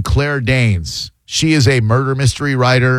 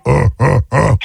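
Tool Time grunts. Acted. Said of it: "without Tool Time".

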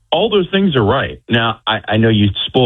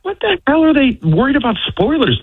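retold incredulity; 14 semitones higher than usual. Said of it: "And I'm like".

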